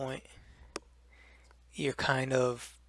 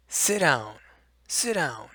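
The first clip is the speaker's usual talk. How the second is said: firm, louder order; authoritative; 6 dB louder, slower than usual. Shown as a demonstration. Teacher ordering a naughty student to sit, firmly. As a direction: command it like a stern teacher. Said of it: "more of a authoritative voice".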